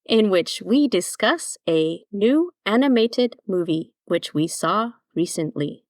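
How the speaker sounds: stiff, mechanical robot voice. Pretend. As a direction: speak like a beeping robot. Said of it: "that is the last of my robot voice".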